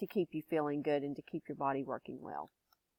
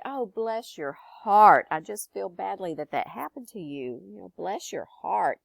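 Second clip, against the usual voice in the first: sympathetic Texan. Shown as a demonstration. Comforting a friend with bad news, Texan sympathy. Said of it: "Another thing that we like to say here is".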